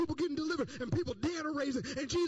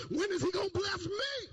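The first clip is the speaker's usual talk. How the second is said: frustrated outburst; 6 semitones higher than usual. Retold or imitated. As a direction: let the frustration burst out. Frustrated disciple complaining.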